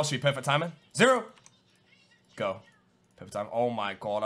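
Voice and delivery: ordinary talk, nothing marked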